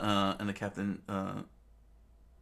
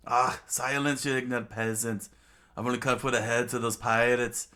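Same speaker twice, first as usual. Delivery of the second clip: commanding villain, moderately raised voice; haughty, mildly shouted command; Crocodile screaming out; 3 semitones higher, 4 dB louder than usual. Acted. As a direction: order the rabble silent. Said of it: "Crocodile screaming out".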